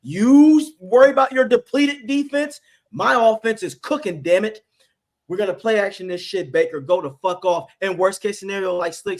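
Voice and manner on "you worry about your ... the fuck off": loud, higher, fierce yelling; fiery retort. Pretend. What Cohen should have yelled at Bowles, loud and fierce. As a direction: bark it back at the timid coach. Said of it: "Cohen should have said".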